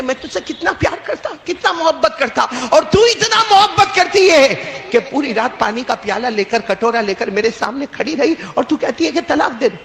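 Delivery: lightly voiced weeping husband; retold crying. Husband weeps to wife over divorce request, lightly mock tearful. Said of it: "باقاعدہ یہ رونے لگے".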